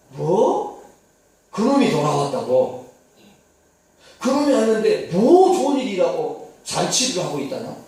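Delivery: loud, indignant disbelief; indignant outburst. Acted. Elder son hears his brother got a feast, loud and indignant. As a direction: hit it like an insulted elder son.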